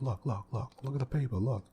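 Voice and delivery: mildly exasperated, urging someone to look; getting all mad. Retold or imitated. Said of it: "he's getting all mad".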